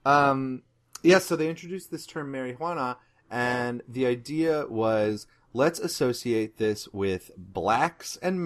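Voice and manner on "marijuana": "marijuana" said mari-HWA-na; Spanish accent. Shown as a demonstration. Host explains the introduced term, Spanish accent. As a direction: pronounce "marijuana" with Spanish vowels and h. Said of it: "insistence on saying it in the Spanish accent".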